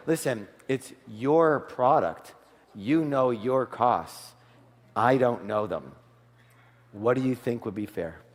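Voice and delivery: slow, low, softening into a hush; calm reassuring. Retold or imitated. Coach demonstrating to a seller, slow and gently reassuring. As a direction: ease the seller into naming a price. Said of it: "like I do with him, I say".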